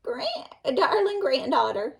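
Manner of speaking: wolf squeaking high, faltering; wolf faking a girl's voice at the door; high fake voice. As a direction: pretend to be a little girl, badly. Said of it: "said the wolf in a high voice".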